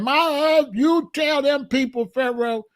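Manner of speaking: a hint of a domineering wife scolding; lightly voiced wife telling her husband off; mock bossy wife. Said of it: "Missus God snatched the phone and said".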